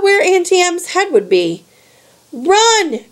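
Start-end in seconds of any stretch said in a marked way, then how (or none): 2.3-3.0 bleated. A narrator's reading. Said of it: "Grover bleated".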